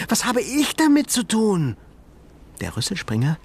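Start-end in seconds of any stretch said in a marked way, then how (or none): 0.1-1.8 lightly voiced boy calling out, a touch higher; indignant boy's protest; mild indignant boy voice; called out. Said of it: "rief Ben".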